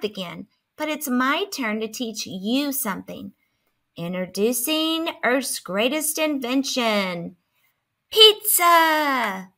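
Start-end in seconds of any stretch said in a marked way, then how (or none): 4.0-9.5 grand announcement. Acted. Grand reveal of pizza.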